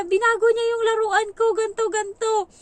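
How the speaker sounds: put-on high loud tattling child; loud high childish tattle; whiny child. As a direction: complain like a crying child telling on her. Child voiced complaining to mother.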